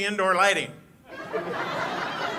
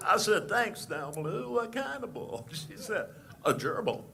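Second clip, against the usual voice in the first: Barney Fife impression; 3 semitones higher, 5 dB louder than usual. Comic plays the boastful deputy telling a crowd a story, loud and squeaky. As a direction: brag like a nervous, puffed-up small-town deputy. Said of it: "Ladies and gentlemen, Barney Fife".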